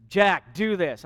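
blunt order to a spouse; bossy, demanding tone; curt command. Shown as a demonstration. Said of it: "when you use a tone to one another".

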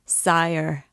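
a hint of a despairing cry. A narrator's reading. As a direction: call after the departing king in despair. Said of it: "he cried in tones of despair".

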